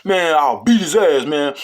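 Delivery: slow, loud groggy threat; imitating a kid woken up snapping; hammed-up sleepy tough talk; mock snapping. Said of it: "they get up snapping".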